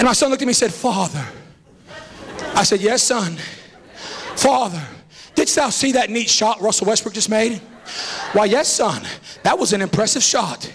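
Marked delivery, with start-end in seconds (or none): 0.7-1.2 lightly put-on formal address; a hint of stiff church formality; mock-pious son. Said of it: "we went the Baptist route. Watch this now". 2.8-3.4 lightly put-on dignified reply; a hint of stiff church formality; mock-pious father. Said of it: "we went the Baptist route. Watch this now". 4.4-10.7 lightly put-on formal politeness; understated parody of stiff church manners; measured, solemn courtesy played for laughs; mock-pious father and son. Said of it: "we went the Baptist route. Watch this now".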